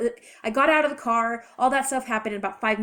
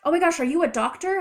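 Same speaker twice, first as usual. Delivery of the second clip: higher, louder imitated call; retold yell; 7 semitones higher, 5 dB louder than usual. Someone yelling to a passer-by for a doctor, retold yell. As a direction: call it out like an onlooker, half-shouted. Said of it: "I heard someone yell".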